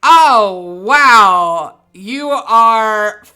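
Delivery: loud, high, drawn-out snooty royal voice; haughty princess. Acted. Rude hostess princess mocks a smelly guest, haughty and loud.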